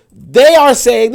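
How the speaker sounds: THEY punched high and loud, drawn out; slow, forceful weight on "They"; stress on THEY. Real, not acted. Contrasting the elite with the powerless, THEY hit high and loud.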